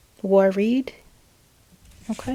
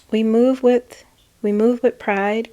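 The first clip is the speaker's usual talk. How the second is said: proud declaration; 3 semitones higher, 5 dB louder than usual. Retold or imitated. Channeling a leader's proud statement, louder. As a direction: proclaim it with pride. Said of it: "reading a proud statement".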